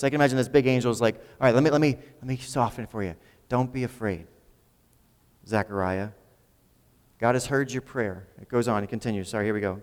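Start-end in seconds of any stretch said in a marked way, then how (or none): 1.1-8.3 softer, gentle reassurance from the angel; kind gentle voice. Retold or imitated. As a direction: soothe a terrified old man. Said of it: "spoke in a very kind, gentle voice".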